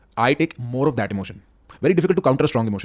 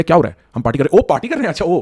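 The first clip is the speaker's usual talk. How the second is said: rising party cheer; 4 semitones higher, 6 dB louder, much faster than usual. Shown as a demonstration. Acted party lift back up.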